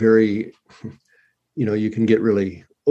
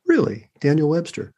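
higher-pitched, incredulous echo; retold surprise; 5 semitones higher than usual. Reacting to the caller's famous cousin, retold surprise. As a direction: re-enact a surprised double-check.

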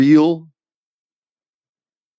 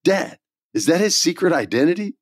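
Rocky; 5 semitones higher than usual. Retold or imitated. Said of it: "my son Rocky goes".

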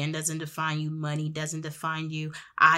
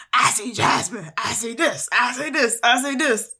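higher and louder with each line; building outrage; 6 semitones higher, 6 dB louder than usual. Retold or imitated. Scrolling through his phone, rising louder and higher. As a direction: pile it on as you find more.

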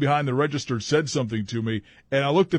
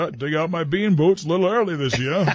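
higher, hammed-up Maine accent; mock Down East accent, pitched up; 4 semitones higher, 3 dB louder than usual. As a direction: play a nonchalant Mainer. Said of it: "That accent is so cool".

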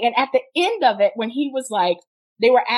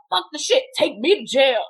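imitating arrested man; 3 semitones higher than usual. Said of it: "he does like this".

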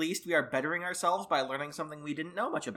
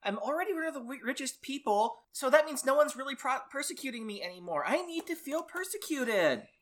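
mocking impression; 7 semitones higher, 3 dB quieter than usual.

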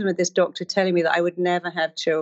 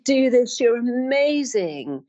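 cheerleader cheer; 6 semitones higher, slower than usual. Retold or imitated. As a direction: cheer them on like a pom-pom girl.

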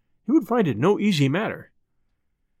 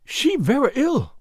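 put-on higher, slow, broken English with a foreign accent; indignant maid, foreign accent; 8 semitones higher, slower than usual. A narrator's reading. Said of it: "cried the girl".

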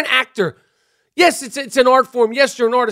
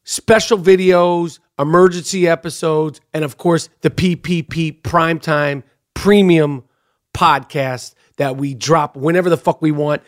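low, measured host plug; podcast subscription promo; 8 semitones lower than usual. Real, not acted. Host selling premium subscription to listeners, low deliberate pitch. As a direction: lay out the offer in a low, deliberate voice.

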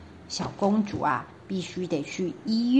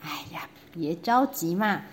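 soothing prime minister. Acted. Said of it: "首相说".

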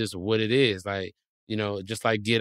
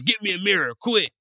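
urgent request; 7 semitones higher than usual. Retold or imitated. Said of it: "you gotta".

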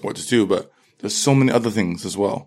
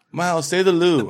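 higher-pitched imitation of a prompting teacher; goading teacher; 8 semitones higher than usual. Teacher asking the English pupil to perform his accent, mock goading. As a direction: mimic a teacher joining in the teasing. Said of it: "Even teachers were like".

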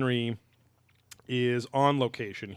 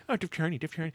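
self-mocking quote; 6 semitones higher, 3 dB quieter, faster than usual. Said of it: "and I fucking said it every".

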